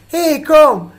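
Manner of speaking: loud, high summons; mock shout. Sick child summoning the rushing family, mock shout. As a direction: call out imperiously across the house. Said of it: "I can just shout".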